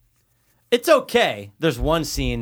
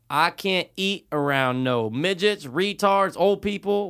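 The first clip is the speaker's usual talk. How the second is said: Doyle impression; 6 semitones higher, slower than usual. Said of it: "Doyle McGraves actually says something".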